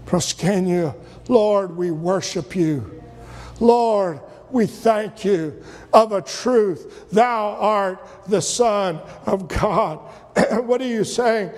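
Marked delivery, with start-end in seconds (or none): 0.1-10.0 slow, low, hushed-in-awe prayer; reverent worship. Acted. Rescued disciples worshipping the Lord in the boat, reverent worship. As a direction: draw it out slowly in reverence.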